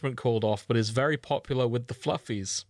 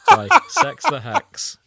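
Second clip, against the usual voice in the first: dramatic title reveal; 13 semitones higher, 12 dB louder, slower than usual. Pretend. Dramatic reading of fic title.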